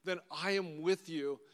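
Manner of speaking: slow, sincere promise in a changed voice; slow earnest vow. Acted. Aristarchus pledges loyalty to Paul, slow and earnest. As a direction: draw each word out like a solemn pledge.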